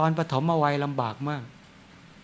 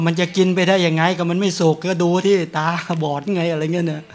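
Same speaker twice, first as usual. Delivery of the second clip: a wife yelling back from the kitchen, louder; mock shouting the complaint, louder; retold shout; 2 semitones higher, 4 dB louder than usual. Wife shouts at husband over uncooked food, loud retold yell. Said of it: "ตะโกนออกมาว่า".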